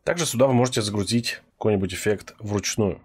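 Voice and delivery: usual speaking voice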